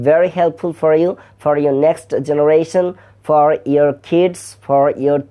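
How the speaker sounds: slow, deliberate English with a Bengali accent; Bangladeshi English accent. Shown as a demonstration. Teacher shows viewers the local accent, slow Bengali-accented English. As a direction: speak English the way it is usually spoken in Bangladesh. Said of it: "আমাদের দেশীয় উচ্চারণে".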